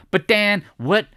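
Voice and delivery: panicky viewer. Retold or imitated. Mocking a viewer afraid Apple breaks the market, mock panic. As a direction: play a panicked trader, hammed up.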